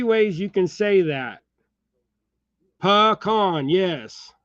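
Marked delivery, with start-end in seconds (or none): 2.8-3.7 "Pecan" as puh-KAHN; his own puh-KAHN. Shown as a demonstration. Showing viewers his own pecan, puh-KAHN. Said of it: "That's how I say it".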